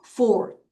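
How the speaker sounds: Forty with strong FOR, faint ty; FOR-ty, ending barely voiced; weak ty. Shown as a demonstration. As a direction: hit FOR, nearly swallow ty. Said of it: "T를 약하게 읽어요".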